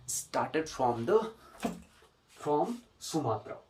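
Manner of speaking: said very slowly, word by word; slow dictation. Shown as a demonstration. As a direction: dictate it slowly for students to write. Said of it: "dictating model sentence". (विद्यार्थियों को धीरे-धीरे लिखवाया गया वाक्य)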